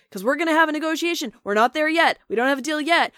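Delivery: high, loud mock enthusiasm; hammed-up excited promoter, raising voice and pitch; excited Don King. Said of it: "he was just so excited".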